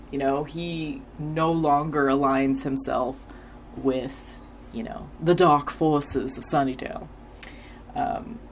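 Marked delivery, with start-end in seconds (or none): 5.2-7.1 lightly attempted Jamaican accent; bad Jamaican accent. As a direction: have a clumsy go at a Jamaican accent. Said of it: "the bad Jamaican accent".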